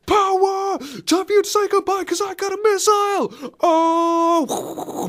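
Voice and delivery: high-pitched hammed-up shout; Terry Crews. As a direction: bellow it like an over-the-top action star. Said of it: "should've just got Terry Crews".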